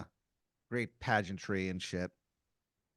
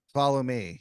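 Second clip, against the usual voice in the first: a touch of a grand command; lightly voiced wizard calling them onward; 2 semitones higher, 5 dB louder than usual. Wizard leads Aaron onward, mildly grand command. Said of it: "He goes".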